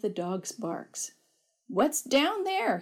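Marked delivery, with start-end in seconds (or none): 1.7-2.8 puzzled call. A narrator's reading. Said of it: "he asked".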